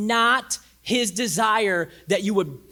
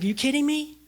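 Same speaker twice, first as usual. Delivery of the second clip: exasperated disbelief; 6 semitones higher than usual. Retold or imitated. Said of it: "And God's like".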